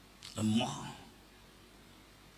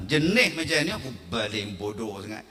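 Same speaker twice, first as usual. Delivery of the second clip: usual speaking voice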